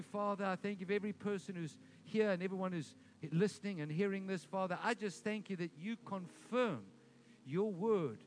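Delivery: earnest, flowing prayer of thanks; fervent prayer. Real, not acted. Pastor thanks the Lord for the congregation, praying fervently. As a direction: pour out thanks to God in a steady chant-like run.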